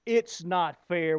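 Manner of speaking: slow, drawn-out "It's not fair"; slow complaint. Retold or imitated. Congregation complaining about life, slow and aggrieved. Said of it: "we not only say".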